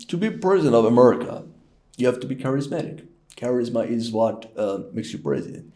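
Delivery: lightly voiced American president, halting phrases; hint of a statesman in quick bursts with pauses; Barack Obama. Shown as a demonstration. President explains charisma to the public, light impersonation. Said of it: "let's start with Barack Obama".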